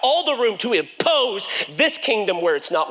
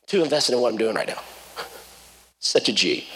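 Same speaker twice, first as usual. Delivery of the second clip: low lazy dude voice; 10 semitones lower than usual. Retold or imitated. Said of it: "voicing lazy Elisha".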